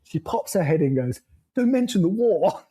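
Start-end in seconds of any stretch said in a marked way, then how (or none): 1.5-2.6 deadpan. Retold or imitated. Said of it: "Absolute deadpan".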